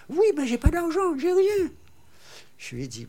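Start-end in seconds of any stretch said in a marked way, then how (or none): 0.1-1.7 high, loud pleading woman's voice; desperate cry of a mother with nothing left; desperate young mother. Retold or imitated.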